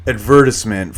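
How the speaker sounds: "advertisement" said the British way, ad-VER-tis-ment; British pronunciation. Shown as a demonstration. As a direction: stress the second syllable of "advertisement", with a short "tis". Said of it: "that's how they would say it".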